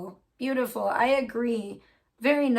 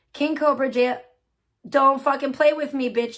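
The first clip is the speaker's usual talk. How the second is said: annoyed outburst; 3 semitones higher, 5 dB louder than usual. Real, not acted. Computer glitches mid-reading.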